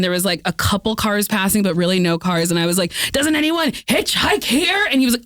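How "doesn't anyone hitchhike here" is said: high, drawn-out plea; pleading question. Retold or imitated. Asking a cab driver in Greece for a ride, high and pleading. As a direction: stretch out a high, hopeful question.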